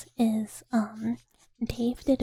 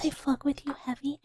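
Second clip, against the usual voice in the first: Gollum voice; 3 semitones higher than usual. Acted. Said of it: "Gollum voice".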